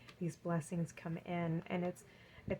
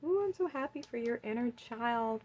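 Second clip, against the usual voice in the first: delighted; 5 semitones higher than usual. Real, not acted. Tarot reader gushing over card.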